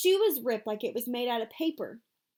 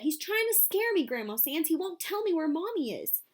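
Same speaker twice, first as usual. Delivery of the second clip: boo-hooing; 6 semitones higher than usual. A narrator's reading. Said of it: "Joey kept boo-hooing".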